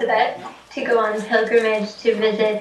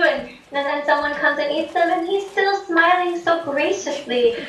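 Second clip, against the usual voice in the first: higher, wide-eyed simple pilgrim voice; naive delighted Ben; 3 semitones higher than usual. Retold or imitated. Ben marvelling at the smiling Buddha, in a higher, wide-eyed voice. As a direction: gush like a simple, grateful pilgrim. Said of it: "And then he thinks".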